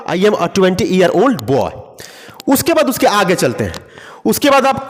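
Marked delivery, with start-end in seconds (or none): 0.1-1.7 slow, word by word, like dictating to a class; teacher's slow model sentence; slow dictation. Shown as a demonstration. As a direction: spell out each word slowly for learners. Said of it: "ये भी कह सकते हैं".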